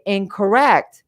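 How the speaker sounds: slow, flat-out "Incorrect"; firm correction. Shown as a demonstration. To a dismissive man, slow firm "Incorrect". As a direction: shut it down, calmly. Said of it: "that's when you say".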